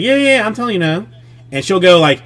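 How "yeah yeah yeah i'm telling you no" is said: child mimicry. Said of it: "And she's like".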